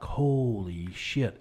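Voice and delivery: slow stunned exclamation; amazed. Retold or imitated. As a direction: drag it out in awe. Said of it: "I was like".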